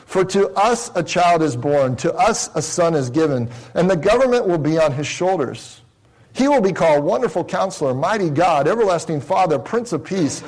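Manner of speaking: measured, emphatic scripture reading. Real, not acted. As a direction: read the verse out with solemn emphasis, drawing out key words. Reads scripture aloud.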